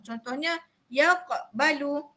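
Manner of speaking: "yaqbalu" slow and soft, with a light bounce on the q; soft qalqalah demo. Shown as a demonstration. Teacher showing the students the soft bounce in "yaqbalu". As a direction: ease through "yaqbalu", bouncing the q gently. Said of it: "lantunan dan detakkan perlahan".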